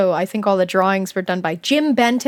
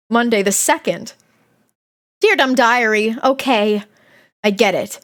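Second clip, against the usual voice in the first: lively first-person story reading; diary read-aloud; 2 semitones higher than usual. Acted. Streamer reading a kid's diary aloud, animated narration. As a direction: read it like a dramatic schoolgirl's diary.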